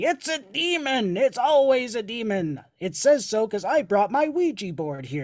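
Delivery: play-acted, wild, high-pitched screaming. Mocking people in paranormal investigations who cry demon, imitating someone screaming.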